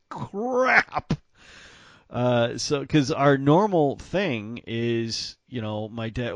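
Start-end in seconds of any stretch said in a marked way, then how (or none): 0.1-1.1 high, strained cry of crap; anguished crap. Retold or imitated. Told his gun-show trip is off, high anguished wail. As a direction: wail it like the plan just died. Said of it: "I was like".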